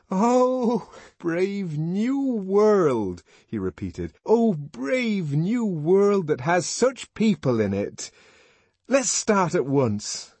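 high, loud, slow and rapturous; joyful exclamation. A narrator's reading. John to Bernard, ecstatic about the new world. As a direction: declaim it in pure joy. John's joyful Shakespeare quote.

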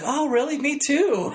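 a hammed-up fake "me too"; mock girly surprise. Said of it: "And she's like".

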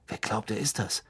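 put-on boy hissing about the stranger; hissed. A narrator's reading. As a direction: hiss it so the sleeper won't wake. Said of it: "zischte Ron".

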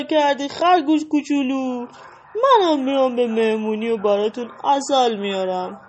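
beam with joy at the party; with a smile. Acted. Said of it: "با لبخند گفت". (با لبخند و شادی)

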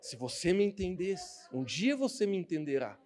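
a soft, knowing mystery line; mysterious hush. Retold or imitated. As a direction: say it like a secret you won't explain. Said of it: "Eu falava assim".

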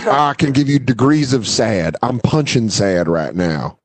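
slow mock Southern bumpkin drawl; Southern bumpkin accent. Kid rating his sadness for the camera, Southern bumpkin accent. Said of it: "he had a fucking Southern bumpkin accent".

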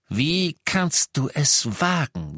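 how dare you, seething; outraged Lupin. A narrator's reading. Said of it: "sagte Lupin". (Lupin empört und wütend gegenüber Harry)

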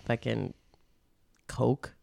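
hushed whispered punchline. Real, not acted.

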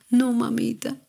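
imitating a hurt child calling out; retold child's cry. Hurt daughter crying out to mom, mild mock cry. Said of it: "me gritaba".

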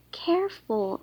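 high, loud warning squeal; startled high squeal of alarm. A narrator's reading. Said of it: "Raina squealed".

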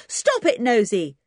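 high, loud yelp of protest; yelling at the bird. Acted. Twin yelling at jackdaw pecking his ear. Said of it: "the twin gave a yell".

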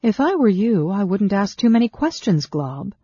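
cool but forceful, starting high and loud; cool warning. A narrator's reading. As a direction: warn an underling, dropping off on his name. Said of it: "Sarah replied coolly".

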